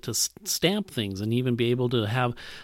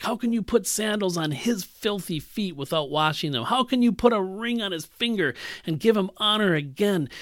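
angry Pharisees; 3 semitones higher, 3 dB louder than usual. Acted. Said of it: "they say".

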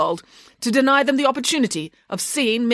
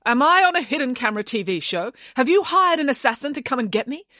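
high, insistent string of questions; mounting disbelief, pitched high; suddenly alarmed; 9 semitones higher than usual. A narrator's reading. Nanny suspicious of rival's sudden niceness, alarmed. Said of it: "suddenly alarmed".

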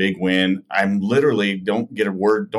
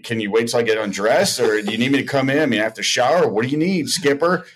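smart aleck comeback; 3 semitones higher than usual. Retold or imitated. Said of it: "this little smart aleck comment like".

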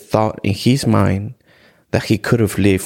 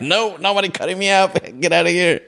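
mock panicked protest; 10 semitones higher than usual. Patient trying to run out of the clinic, mock panic. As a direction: act out a squealed protest with a laugh in it. Panicked refusal of surgery, retold.

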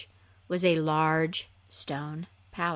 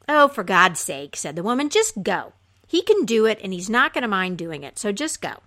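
exasperated wife; 4 dB louder than usual. Acted. Wife impatiently pushing husband.

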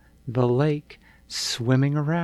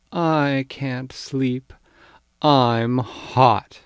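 whiny complaint; 6 dB louder, much slower than usual. Acted. Child complains to parents.

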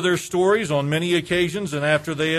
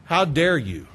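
indignant. Pretend. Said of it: "I've wanted to say something like this".

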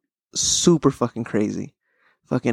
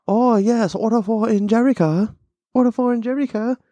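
put-on high caricature Asian accent; mock Asian accent; 8 semitones higher than usual. Restaurant worker calling out an order, mock Asian accent. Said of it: "the Asian accent is probably".

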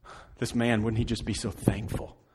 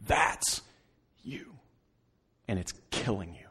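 whispered, very soft; whispered point to the congregation; hushed accusation; 4 semitones lower, 7 dB quieter than usual. Acted. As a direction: lean in and whisper it.

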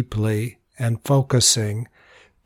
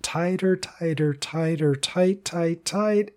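rising, tightening coaching voice; tensing up; 5 semitones higher, 5 dB quieter than usual. Shown as a demonstration. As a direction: pitch climbing step by step on each repeat.

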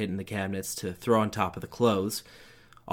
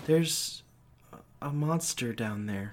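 put-on scared child; 3 semitones higher, slower than usual. A narrator's reading. Child pleading.

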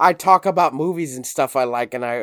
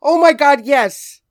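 much higher and louder, yelling yes; excited shout; 12 semitones higher, 10 dB louder, much slower than usual. Real, not acted. Agreeing with a friend who nailed the coworker, excited shout. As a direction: shout it like they read your mind. Friend nails the point exactly.

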